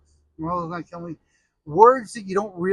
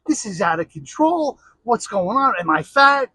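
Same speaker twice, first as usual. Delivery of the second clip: louder, offended rant as the mother-in-law; indignant mother-in-law; 3 semitones higher, 4 dB louder than usual. Retold or imitated. Mother-in-law complaining at Thanksgiving, indignant and loud. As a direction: huff like you've just been called fat. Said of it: "Now my mother-in-law is pissed off at everybody".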